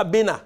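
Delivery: "bena" said clearly as a Bassa word, stress on the last syllable. Shown as a demonstration. Lecturer showing students how to say "bena". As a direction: pronounce "bena" deliberately, like a word being taught. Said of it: "je vais prononcer le mot".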